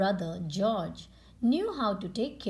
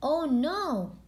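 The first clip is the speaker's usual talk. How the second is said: high, louder worried oh no; dismayed cry; 6 semitones higher, 4 dB louder than usual. Acted. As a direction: cry out in alarm. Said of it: "Peppa cried".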